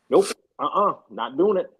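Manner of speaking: retold flat-out refusal; firm refusal. Player to the coach who wants him up, firm refusal. Acts out his refusal to play.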